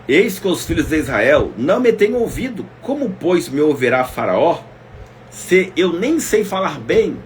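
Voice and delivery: pleading Moses. Acted. Preacher voicing Moses' plea.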